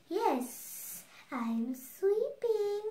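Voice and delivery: high, drawn-out cat voice; hissed cat reply. A narrator's reading. Cat fools Baba Yaga in Tasha's place, slow high hiss. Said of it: "hissed the cat".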